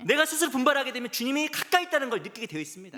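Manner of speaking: loud, high-pitched sermon delivery; impassioned preaching. Real, not acted. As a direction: preach it at full force to rouse the congregation. Preacher at full force.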